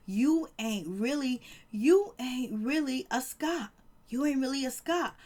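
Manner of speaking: stretched-out mock confrontation; retold taunt. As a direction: draw out the put-down, mocking a showdown. Acted taunt, drawn out slowly.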